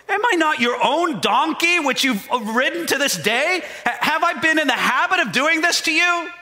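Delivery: a patient donkey pointing out its loyalty. Acted.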